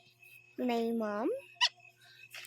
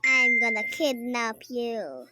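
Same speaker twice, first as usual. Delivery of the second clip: menacing kidnapper; 4 semitones lower, 5 dB louder than usual. Pretend. Kidnapper role in play.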